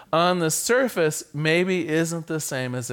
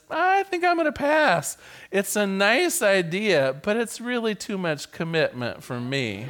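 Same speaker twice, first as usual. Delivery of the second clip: pig declines; 3 semitones higher than usual. Acted. Pig turning down the chicken's idea, amused. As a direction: deliver the punchline with a chuckle. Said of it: "the pig thinks for a moment and says".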